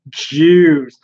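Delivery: E. Michael Jones. Retold or imitated. Streamer quoting the commentator's pet word, mock maniacal cry. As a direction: blurt it out like a maniac, exaggerated. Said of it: "so obsessed with saying".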